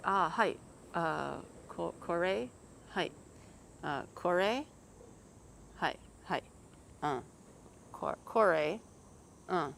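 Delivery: lightly voiced, hesitant, broken Japanese with rising kore; fumbling tourist asking kore, kore?; mock clueless Shadog. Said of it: "that's what he's gonna say".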